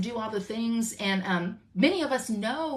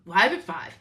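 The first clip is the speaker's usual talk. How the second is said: news anchor voice; 3 semitones lower, 4 dB louder than usual. Shown as a demonstration. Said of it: "I wanna talk like a news anchor".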